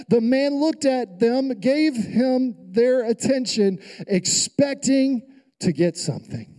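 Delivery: "expecting" stretched out slowly; emphatic reading. Shown as a demonstration. Preacher rereading scripture to the church, emphatic. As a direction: read deliberately, lingering on "expecting". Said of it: "for emphasis, read that".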